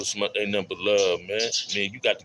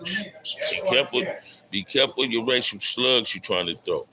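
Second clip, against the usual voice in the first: stern warning; 4 semitones higher than usual. Real, not acted. Warning a troll in chat.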